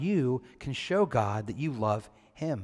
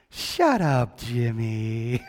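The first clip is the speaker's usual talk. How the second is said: sweet, sing-song "Shut up, Jimmy" with a louder, brighter lift; mean words in a nice voice; 7 dB louder, much slower than usual. Retold or imitated. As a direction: say the rude line as sweetly as you can, like a little girl. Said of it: "those mean words in a nice voice".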